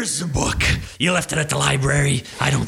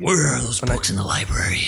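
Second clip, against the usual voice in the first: whisper; 2 semitones lower than usual. Pretend. Mock Batman aside.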